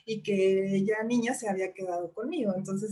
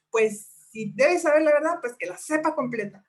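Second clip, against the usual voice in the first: louder, higher furious retort; angry outburst; 6 semitones higher, 4 dB louder than usual. Retold or imitated. Mother snapping at her daughter in fury, loud and high. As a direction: spit it out in a burst of anger. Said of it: "en mi furia, en mi enojo".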